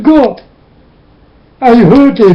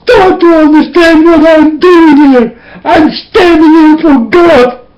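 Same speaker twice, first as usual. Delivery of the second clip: tearful preaching, higher than usual; crying; 5 semitones higher than usual. Real, not acted. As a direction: plead through real tears. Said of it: "I can start to cry directly".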